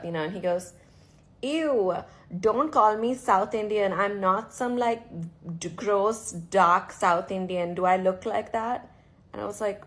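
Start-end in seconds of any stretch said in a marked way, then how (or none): 1.4-8.9 imitating a disgusted man in Bombay-accented English; mock snobby Bombay accent, louder on the refusal. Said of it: "Bombay accent".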